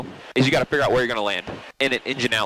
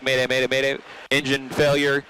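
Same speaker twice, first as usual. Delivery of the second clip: steady, even radio call; unhurried, matter-of-fact distress call; calm mayday call. Shown as a demonstration. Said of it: "It would be this calm?".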